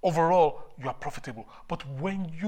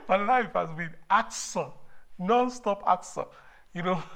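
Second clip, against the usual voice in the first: fervent new convert; 2 semitones higher than usual. Real, not acted. Retells own life since conversion.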